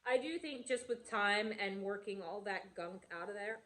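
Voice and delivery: throat tickled by a bug; strained, about to cough; just inhaled a bug. Real, not acted. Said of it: "excuse me, bug".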